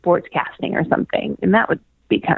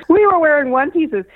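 high and laughing through the words; 9 semitones higher than usual. Real, not acted. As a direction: laugh it out, amused at yourself. Laughing repeat of the line.

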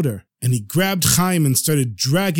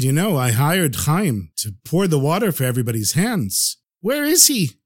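a little upset. Acted. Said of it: "Reb Meir was getting a little upset".

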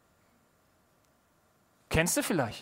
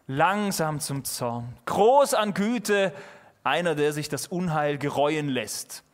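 scripture reading. Acted. Reads Bible passage aloud.

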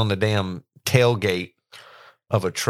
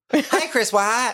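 high mock British "Hey, Chris White"; mock British accent; 13 semitones higher, slower than usual. Greeting the cohost in a hammed-up British accent. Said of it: "you speak like a British".

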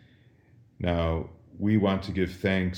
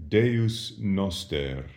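slow model answer; 3 semitones higher, much slower than usual. Shown as a demonstration. Teacher models Latin answer slowly.

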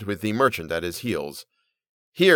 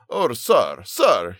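pleading cry; much slower than usual. A narrator's reading. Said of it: "he cried".

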